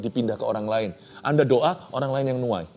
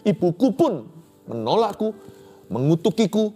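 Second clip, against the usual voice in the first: weeping prayer; 6 semitones higher than usual. Shown as a demonstration. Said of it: "Ini udah banjir pipi".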